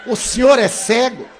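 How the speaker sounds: high, loud incredulous cry through laughter; shocked shout. Retold or imitated. Bodybuilder learning the man is blind, loud shocked shout. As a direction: blurt it out in disbelief. Young man's shocked question.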